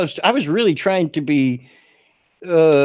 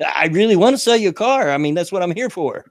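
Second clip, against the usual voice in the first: earnest plea; 5 semitones higher than usual. Retold or imitated. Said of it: "quietly told her".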